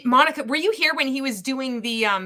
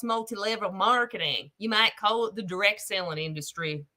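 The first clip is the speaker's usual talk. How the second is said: lightly folksy prospector lecture; mock prospector. Prospector lecturing son on failure rates, mock folksy accent. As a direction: explain it as a hammed-up prospector.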